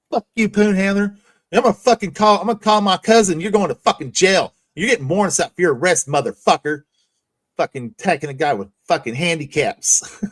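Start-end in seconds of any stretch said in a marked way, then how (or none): 0.1-6.8 mock angry threat. Imitating Rich's threats again.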